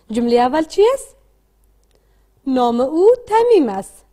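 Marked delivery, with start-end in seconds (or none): 2.5-4.0 slow read-aloud model. Shown as a demonstration. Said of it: "با صدای بلند بخوانید".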